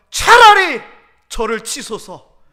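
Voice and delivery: wail, then drag it out solemnly; mock solemn plea. Son's punchline, mock prayer. (과장되게 크게 외친 뒤 느리고 엄숙하게)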